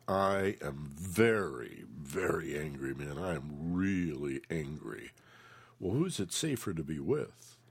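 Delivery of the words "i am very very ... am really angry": slow, low, steady statement of anger; a person openly naming their anger to a roommate, said slow and low; calm angry admission. Retold or imitated. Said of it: "they are willing to say out loud".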